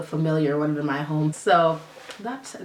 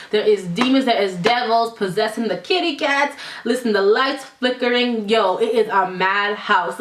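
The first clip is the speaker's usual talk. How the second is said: high, slow, panicky pleading; frantic; 4 semitones higher, 4 dB louder, slower than usual. Retold or imitated. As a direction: beg dramatically for help. Frantic retold plea about ghosts.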